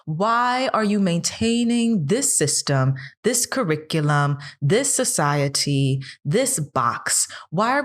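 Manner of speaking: pressing why again and again, pitch up; impassioned questions. Real, not acted. Passionate rhetorical questioning of the system.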